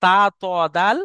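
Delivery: loud, exaggerated Arabic letters ta, to, dal; Arabic letter demo. Shown as a demonstration. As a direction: sound out তা, ত, দাল with the tongue tip on the upper gums. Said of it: "জিভের আগা এবং সামনের উপরের".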